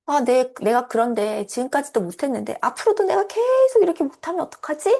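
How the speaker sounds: fast, rising anxious inner voice; anxious worry. Retold or imitated. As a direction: fret about failing again. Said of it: "불안감이 들겠죠". (불안하게 걱정하는 속마음)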